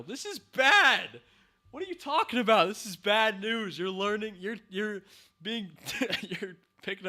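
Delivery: shocked and loud; alarmed outburst. Real, not acted. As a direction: sound the alarm in real dismay. Outraged at the show's message.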